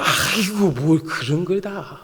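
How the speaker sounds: slowing, drawn-out Chungcheong demurral; Chungcheong-style modesty. Acted. God secretly pleased by David's offer, Chungcheong-style demurral. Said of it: "충청도 분이신 것 같아요".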